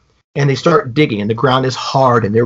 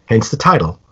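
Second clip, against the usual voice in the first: Serling intro; 3 semitones lower than usual. Retold or imitated. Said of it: "that Serling goes".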